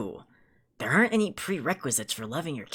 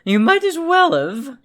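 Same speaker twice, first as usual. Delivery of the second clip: shouting angrily; 3 semitones higher, 6 dB louder than usual. Acted. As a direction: yell it in his face. Heated argument.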